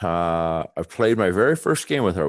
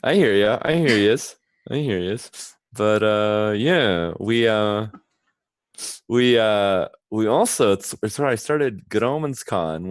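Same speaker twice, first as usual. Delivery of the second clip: teeth bared, lips apart; through gritted teeth; 4 dB louder than usual. Shown as a demonstration. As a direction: talk through your teeth. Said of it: "talk through your teeth".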